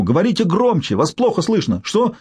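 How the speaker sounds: high, strained yelling down a bad line; shouting into the phone. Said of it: "заорал он в трубку".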